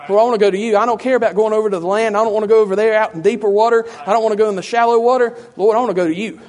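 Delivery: loud, earnest acted appeal; insistent plea. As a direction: press the plea forcefully, line after line.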